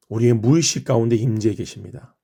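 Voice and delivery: ordinary talk, nothing marked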